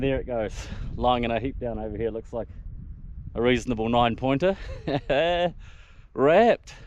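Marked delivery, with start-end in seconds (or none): 4.9-6.7 elated. Real, not acted. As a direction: burst out with real joy. Just shot a stag, elated.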